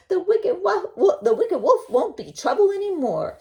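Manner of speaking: high, loud, laughing boast; laughing hunter. Acted. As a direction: reassure them with a laugh. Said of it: "said the hunter".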